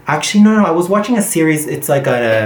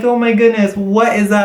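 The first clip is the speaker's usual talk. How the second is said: much higher, amazed question; mock astonishment; 7 semitones higher than usual. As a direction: act floored by the word. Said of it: "I was like".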